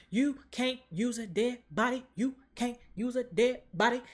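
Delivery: high, eerie mock ghost chant; lightly voiced spirits warning him; spooky ghost voice. Ghosts scolding Strange, eerie chant.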